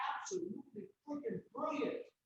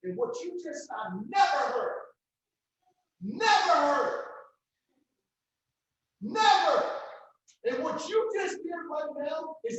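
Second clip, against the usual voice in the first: slow, much louder, choked-up emphasis on never; fighting back tears and pushing each never out louder; emotional outburst; 4 semitones higher, 8 dB louder, slower than usual. Real, not acted. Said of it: "I'm about to cry right now".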